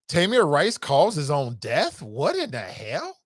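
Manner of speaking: incredulous repeat. Real, not acted. Repeats the comment in disbelief.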